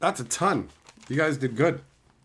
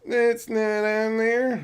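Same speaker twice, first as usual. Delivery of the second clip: higher, drawn-out silly voice; silly repeat; 4 semitones higher, slower than usual. Pretend. Streamer checking the list, silly high drawn-out repeat. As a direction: repeat it slow and high, goofing around.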